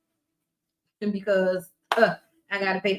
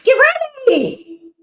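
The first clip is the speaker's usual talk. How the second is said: loud, high hype shout; hype call; 14 semitones higher, 10 dB louder than usual. Pretend. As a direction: pump the crowd up for the entrance. Hyping the alter ego entrance.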